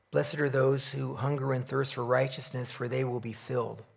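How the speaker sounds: measured, solemn reading of the Beatitudes; scripture reading. Acted. Preacher reads Matthew five to the congregation, solemnly. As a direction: read each blessing with reverent weight.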